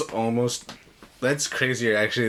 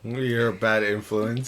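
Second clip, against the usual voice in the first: slow, drawn-out mocking echo; mock scolding; 3 semitones lower than usual. Co-host echoing a goddess's scolding of Percy, mock-stern. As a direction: parrot the disapproval slowly.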